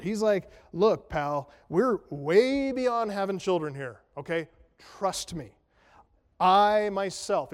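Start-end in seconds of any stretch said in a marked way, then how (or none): 0.7-5.5 lightly voiced, louder insistent old man; a hint of an exasperated old priest; emphatic Zechariah. Zechariah arguing with the angel, emphatic and louder. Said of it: "he's pretty emphatic about it". 6.4-7.5 "I myself" slow and louder, stressed hard; emphatic I myself. Retold or imitated. Zechariah insisting on his age, "I myself" emphatic. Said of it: "it's emphatic in the Greek".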